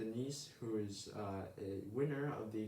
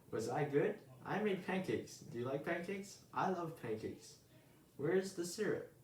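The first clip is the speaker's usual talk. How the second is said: put-on higher, bubbly young bird voice; eager little bird; 6 semitones higher than usual. Early Bird gushing to sleepy Owl, high and eager. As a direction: chatter up at your hero, all excitement.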